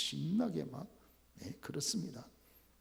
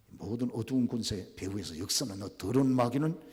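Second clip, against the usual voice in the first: commanding rebuke; 5 semitones lower than usual. Shown as a demonstration. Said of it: "탁, 탁 명령해 버리는 거죠".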